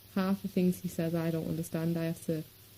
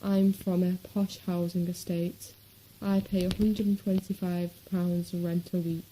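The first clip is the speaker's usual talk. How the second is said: put-on snobby posh accent. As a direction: imitate a snobby posh accent, lightly exaggerated. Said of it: "their accent sounds snobby, 'cause, oh yes, they'll talk like this".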